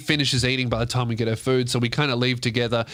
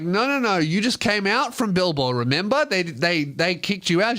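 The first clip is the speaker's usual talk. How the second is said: patient explaining; 5 semitones higher than usual. Retold or imitated. Reminding drunk girl.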